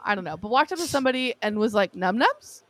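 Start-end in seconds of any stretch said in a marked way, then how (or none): 1.9-2.6 Num nums with a questioning rise on nums; asking as a question. Retold or imitated. Aunt imitating nephew asking for food, questioning rise. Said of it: "Like, as a question".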